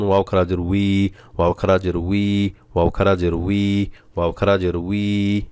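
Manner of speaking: উই said with a long pulled vowel each time; extra drawn-out drill. Shown as a demonstration. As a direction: drill উই slowly, stretching the sound. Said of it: "এভাবে করে টান বেশি বেশি দিয়ে". (উই শব্দটা বেশি টান দিয়ে বারবার পড়া)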